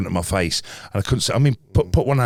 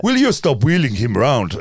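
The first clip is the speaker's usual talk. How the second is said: a light imitated African accent, a bit higher and louder; the nurse gently telling him off, in a mild African accent; a hint of an African accent from the nurse; nurse's African accent; 4 semitones higher, 4 dB louder than usual. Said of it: "Don't do the accent".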